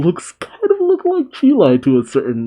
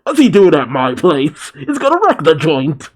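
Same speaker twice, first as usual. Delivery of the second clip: mildly panicked, indignant outburst; freaking out; 3 semitones higher than usual. Acted. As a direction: act out a mock freak-out over an unwelcome guest. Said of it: "Beerus freaks out".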